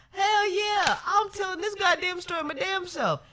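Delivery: high, loud words squeezed out through laughing; cry-laugh at your own dumb mistake; howling laughter. Real, not acted. Laughing at her own blunder, loud and high-pitched.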